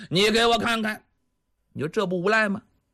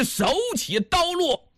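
higher, ringing storyteller's cry at the climax; dramatic shout; 8 semitones higher than usual. A narrator's reading. The storyteller bursts out as the blade falls, ringing high call.

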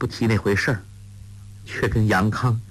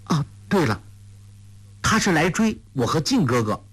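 put-on higher, eager girl cutting in; lively girl chiming in; interrupting; 6 semitones higher than usual. A narrator's reading. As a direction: jump in with sudden realisation. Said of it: "黄蓉插口说".

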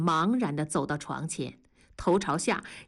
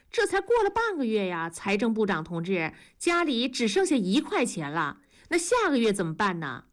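质问; 2 semitones higher than usual. Acted. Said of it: "文丽挥动着那一块钱说".

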